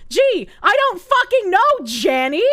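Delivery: exasperated sarcastic reply to a DM; sarcastic retort. Retold or imitated. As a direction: snap back at Jenny with mock surprise. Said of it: "And it's like".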